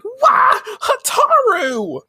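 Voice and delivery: high shrieking wail of a name; wailing cry. Retold or imitated. Usagi sees her friend transformed, shrill panicked wail. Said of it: "And she's like".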